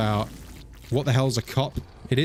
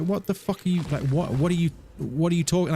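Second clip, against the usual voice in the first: imitating himself going off; lightly acted exasperated cursing; mock self-scolding; 4 semitones higher than usual. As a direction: tell yourself off in mock annoyance. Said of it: "going off".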